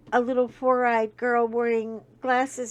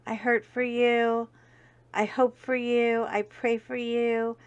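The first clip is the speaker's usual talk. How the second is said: serious and tender. Real, not acted. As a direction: speak gently to those suffering. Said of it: "take one serious second and say".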